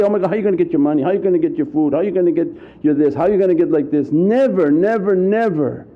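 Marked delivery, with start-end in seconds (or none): 0.0-4.1 rushed whisper in the ear. Retold or imitated. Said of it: "sit in your ear and say".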